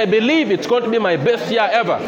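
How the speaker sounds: loud declaration. Shown as a demonstration. Pastor leading the church to shout their declaration, loud and high. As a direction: proclaim it out loud with full conviction. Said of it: "Now begin to pray".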